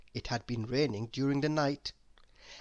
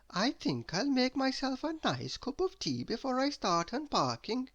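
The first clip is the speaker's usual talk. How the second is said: higher, lightly voiced tidy lady; a hint of prim Miss Neat, pitched up; 9 semitones higher than usual. A narrator's reading. Miss Neat planning tea after her trip, higher.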